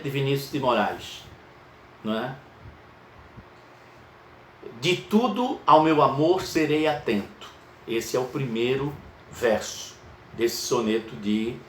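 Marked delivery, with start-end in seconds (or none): 4.8-7.5 measured verse reading; poem recited. Shown as a demonstration. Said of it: "Vamos contar as sílabas poéticas".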